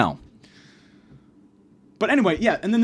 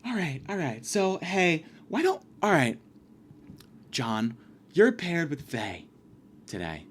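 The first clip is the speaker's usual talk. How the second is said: teacher; 5 dB quieter, slower than usual. Retold or imitated. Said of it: "And then the teacher goes".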